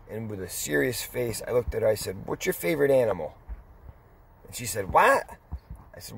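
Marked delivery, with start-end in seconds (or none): 4.9-5.3 high, loud startled what; baffled what. Retold or imitated. Old woman baffled by a strange question, a startled what. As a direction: caught completely off guard.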